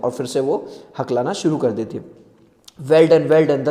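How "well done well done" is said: encouraging. Acted. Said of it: "the teacher encouraged her".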